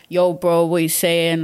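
lightly done London roadman greeting; casual London roadman slang voice; london roadman accent. Retold or imitated. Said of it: "I act as man them as possible".

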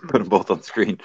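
speaking with hiccups. Real, not acted. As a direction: hiccup interrupting the line. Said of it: "Fucking hiccups".

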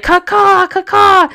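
high, loud double mock caw; imitated bird call. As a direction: squawk it like a bird taking off. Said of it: "like a fucking bird and be like".

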